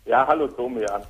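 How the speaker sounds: speakerphone sound, hollow and distant; talking hands-free on speakerphone. Real, not acted. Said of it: "du klingst so ein bisschen, äh, sprichst du mit einer Freisprechanlage?".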